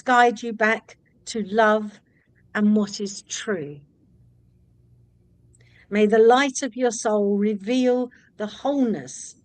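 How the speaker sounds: slow, measured reading of a prayer. Acted. Host reads the book's closing prayer to the author, slow and reverent. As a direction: read it like a gentle blessing, unhurried. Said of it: "you've got a closing prayer".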